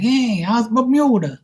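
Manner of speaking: very high, drawn-out Boston greeting; exaggerated Boston accent, stretched out. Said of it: "that's how Bostonian people talk".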